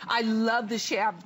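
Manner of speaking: speaking through hiccups; hiccuping. Real, not acted. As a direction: hiccup mid-word. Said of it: "pardon me, I'm hiccuping".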